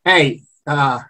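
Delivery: Brooklyn-like New Orleans city accent; New Orleans Yat accent. Shown as a demonstration. Locals overheard in a Quarter restaurant, New Orleans Yat accent. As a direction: talk like a New Orleans local, "turn" as "toin". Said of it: "hear some people talking like".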